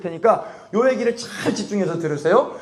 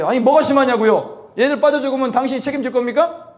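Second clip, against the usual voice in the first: retold angry challenge; 5 semitones higher than usual. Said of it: "이 양반이 그렇게 막 소리를 지르니까".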